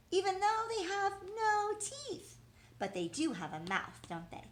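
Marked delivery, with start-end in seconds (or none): 0.1-2.4 teacher's excited emphasis. Acted. Teacher reviews list with child.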